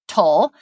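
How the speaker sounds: "tul" said alone and slowly as the final syllable of turtle; syllable demo. Shown as a demonstration. Teacher isolating the last syllable of turtle, slowly. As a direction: sound out "tul" on its own, unhurried. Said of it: "the final syllable is the".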